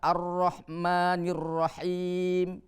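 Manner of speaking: very slow recitation, long held final syllable; Quran recitation demo. Shown as a demonstration. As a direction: draw out the long vowels evenly. (bacaan tartil, mad dipanjangkan)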